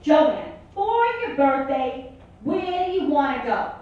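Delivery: mock sugary mom; mother's voice. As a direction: coo it like a doting mother. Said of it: "And she goes".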